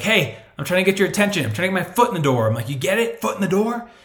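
bang on the camera to grab attention; goofy salesman punching the pun; hyped ad pitch. Retold or imitated. Acting out his catchy ad.

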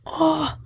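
pained ah. Real, not acted. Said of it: "Canım acıdı".

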